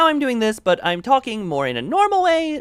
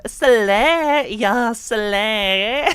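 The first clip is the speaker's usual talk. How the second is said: put-on valley girl slay; 3 semitones higher, 3 dB louder, much slower than usual. Shown as a demonstration. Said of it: "sweeping out from the tone that way".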